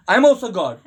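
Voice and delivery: loud cocky claim with a laugh; playful brag through laughter; laughing boast. Acted. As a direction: boast while cracking up.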